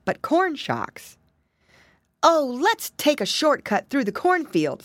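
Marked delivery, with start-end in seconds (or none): 2.2-4.8 piglet suggesting. Acted. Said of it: "suggested Curly".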